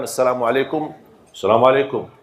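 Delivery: brisk, firm Assalamualaikum said quickly and sharply; Arab-style greeting. Shown as a demonstration. Man showing his old brisk Arab greeting. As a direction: fire off Assalamualaikum short and blunt. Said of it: "saya suka mengucapkan".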